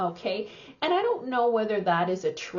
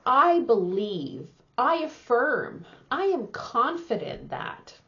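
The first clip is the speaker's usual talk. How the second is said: confident; 3 semitones higher than usual. Shown as a demonstration. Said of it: "we should feel very confident about saying".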